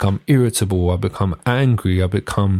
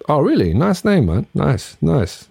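polite surprise; 6 semitones higher than usual. Acted. Acting out a polite reaction.

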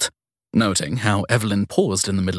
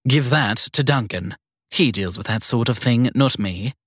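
put-on bossy elderly matron giving orders; prissy strict schoolteacher voice; 2 semitones higher than usual. Evelyn refuses paperwork.

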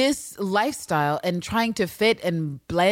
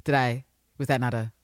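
mock innocent Mariana; faster than usual. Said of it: "to be like".

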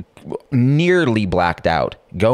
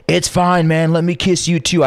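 put-on high, breezy drunk reassurance; lightly mocking his own drunk breeziness; carefree drunk; 11 semitones higher than usual. Drunk guy placating husband.

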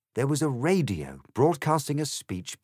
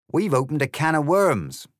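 higher, louder badger voice; badger character; 6 semitones higher, 6 dB louder than usual. A narrator's reading. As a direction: speak up forcefully as an animal character. Badger interjects in debate.

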